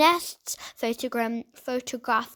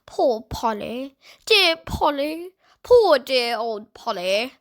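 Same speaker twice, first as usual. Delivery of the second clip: tearful parrot; 7 dB louder, slower than usual. A narrator's reading. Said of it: "repeated the word softly, as if she was about to burst into tears".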